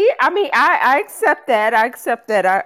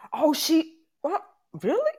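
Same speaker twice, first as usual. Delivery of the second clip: whispering; 4 semitones higher, 6 dB quieter than usual. Real, not acted. Shocked aside about Vernisha.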